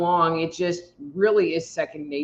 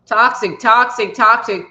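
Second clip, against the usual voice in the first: emphatic; 4 semitones higher, 7 dB louder than usual. Real, not acted. Emphatic repeated warning word.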